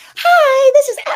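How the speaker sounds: fake, forced, very high and very loud voice. Retelling answering a phone call: fake, forced phone voice. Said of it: "it sounds so fake and so forced".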